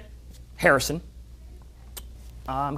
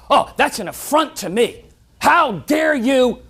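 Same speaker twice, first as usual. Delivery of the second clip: mock offense; 5 semitones higher, 3 dB louder, slower than usual. Imagined offended reaction.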